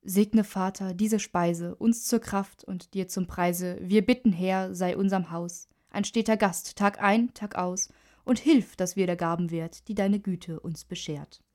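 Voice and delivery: measured, slowed grace; table prayer. A narrator's reading. Father saying grace at the dinner table, prayerful. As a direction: recite it solemnly with drawn-out line endings. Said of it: "der Vater sprach das Gebet".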